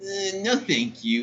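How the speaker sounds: softly voiced reluctant cashier; high hesitant start, dropping away softly; retold girl's refusal. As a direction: imitate a hesitant, quiet brush-off. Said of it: "And the girl says".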